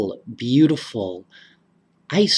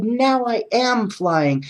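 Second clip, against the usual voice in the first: excited shout; 9 semitones higher than usual. Acted. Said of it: "he shouted".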